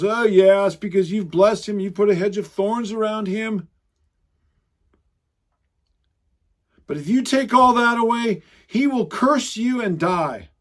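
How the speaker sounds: lightly voiced taunting Satan; mocking, scornful Satan. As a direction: retell it with a touch of scorn. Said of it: "the mocking and the taunting and the scorning Satan goes".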